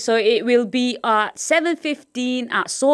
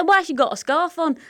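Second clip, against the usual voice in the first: put-on higher, innocent child's question; higher-pitched voice of a child asking her dad; curious little girl; 8 semitones higher than usual. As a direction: ask it like a puzzled six-year-old. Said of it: "I said".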